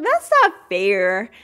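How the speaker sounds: loud, slow sulky complaint; whiny protest. Retold or imitated. The daughters protesting Theo's new car, loud sulky whine. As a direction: drag it out like jealous sisters. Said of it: "And the girls were like".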